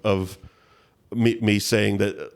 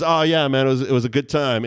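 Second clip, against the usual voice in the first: put-on McConaughey accent; 4 semitones higher, 3 dB louder than usual. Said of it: "I get to do my McConaughey accent badly".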